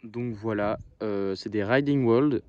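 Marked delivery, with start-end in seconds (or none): 1.6-2.4 "Riding World" said with a strong French accent; brand name read in French-accented English. Real, not acted. Apologizing to viewers for her French accent on "Riding World". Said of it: "désolé pour mon accent anglais".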